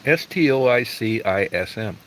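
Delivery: "S T O I C I S M" slowly, letter by letter; spelling out. Real, not acted. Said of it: "How do you pronounce that".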